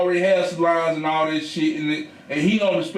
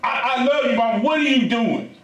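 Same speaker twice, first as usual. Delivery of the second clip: high exasperated questioning; 5 semitones higher than usual. Retold or imitated. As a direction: demand what she is doing, half laughing. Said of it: "I'm like".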